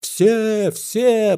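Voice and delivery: high crowd shout; yelled from seats. A narrator's reading. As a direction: yell it from your seat. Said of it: "заорали с мест".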